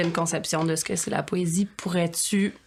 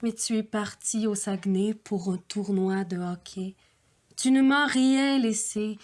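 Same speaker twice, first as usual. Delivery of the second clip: earnest, wistful love poem reading; measured poetic recital with pauses; poem recitation; slower than usual. Acted. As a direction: recite a lovelorn poem, phrase by phrase.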